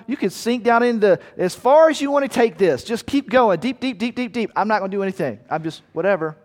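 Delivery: a careless god who shrugs you off; mock indifference. Voicing an uncaring God.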